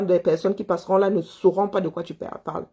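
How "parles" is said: ordinary delivery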